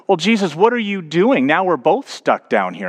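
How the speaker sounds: high, incredulous questioning; acted bewilderment. Trapped man reacts as Jesus jumps in.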